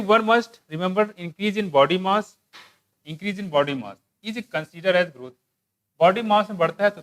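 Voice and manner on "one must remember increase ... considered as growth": slow, deliberate English reading; textbook read-aloud. Real, not acted. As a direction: read the text out slowly, phrase by phrase. (धीरे-धीरे पाठ पढ़कर सुनाते हुए)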